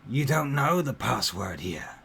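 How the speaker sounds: lightly voiced orc child. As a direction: challenge them as a suspicious orc child. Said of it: "the child looks up at you and says".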